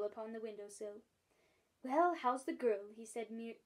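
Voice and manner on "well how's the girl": cheeky. Acted. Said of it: "inquired cheekily".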